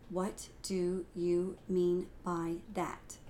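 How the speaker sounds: slow, even reading of the phrase; plain example. Shown as a demonstration. Teacher reads the example phrase slowly. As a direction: say it slowly and evenly. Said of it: "I want to give you an example".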